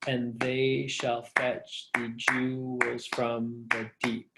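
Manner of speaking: very slow, each syllable of "And they shall fetch" measured out separately; clapping out syllables. Shown as a demonstration. Teacher showing how to count syllables in the line, syllable-by-syllable. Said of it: "we clap out the syllables".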